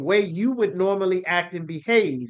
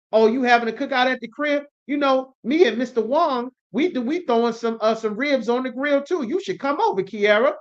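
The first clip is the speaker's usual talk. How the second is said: lightly acted salon worker chatting, higher; imagined chummy small talk; 4 semitones higher than usual. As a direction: play a neighborly cookout invitation. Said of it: "Are they talking to you?".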